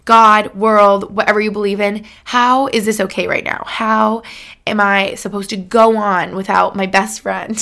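demanding an answer from God through grief; retold outcry of loss; anguished plea.

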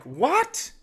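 a sudden shrill-free jump up in pitch; high shocked what?. Retold or imitated. Daughter baffled by dad, high surprised what. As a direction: squeak it out in disbelief.

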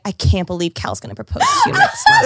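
high-pitched, hammed-up outraged squeal; mock upset. Reading out Ollie's text about the proposal, mock upset. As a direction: imitate an upset friend's incredulous protest. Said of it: "So upset".

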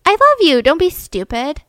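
imitated indignant reassurance; retold exasperated affection. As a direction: act out a daughter brushing off a silly question. Daughter's retold protesting reply to dad.

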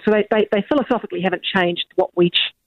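speaking down a bad phone line; thin, worn-sounding phone line. Real, not acted. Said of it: "Sorry about the quality of the line".

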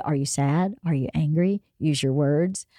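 low, gentle parent questions; coaxing a small child. Retold or imitated. Parent reminds child how they asked as a kid, gentle coaxing. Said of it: "just like when you were a kid".

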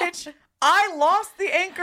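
mock exasperated retort. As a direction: spell it out to a fool. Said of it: "I'm like".

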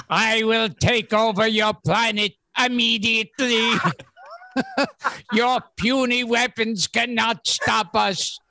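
lightly voiced Martian invader; a hint of a Martian taking over. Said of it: "he sounds like a Martian taking over the planet".

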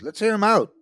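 loud, high plea to listen. Acted. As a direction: call for calm over the noise. Kent pleading over the noise.

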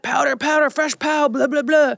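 high, loud mocking of the ski crowd; mocking chatter. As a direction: parrot them with an eye-roll. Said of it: "Everyone's like".

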